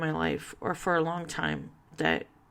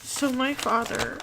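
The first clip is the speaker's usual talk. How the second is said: higher, tearful voice; real, choked-up grief; fighting back tears; 5 semitones higher than usual. Real, not acted. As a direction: get the words out through rising tears. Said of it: "I'm gonna cry".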